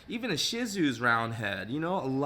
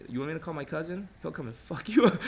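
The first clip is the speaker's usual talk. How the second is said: fast, tough mock threat; threatening salon staff; 2 semitones higher, faster than usual. Salon staff threatening the fussing customer, mock menacing. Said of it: "They're gonna be like".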